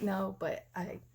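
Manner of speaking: high, pleading protest. Retold or imitated. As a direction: plead your case, pitch rising. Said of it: "I'm like".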